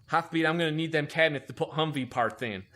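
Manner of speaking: imitating the chief's bad lisp; mock a heavily lisping boss; really bad lisp. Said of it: "he talked with a really bad lisp".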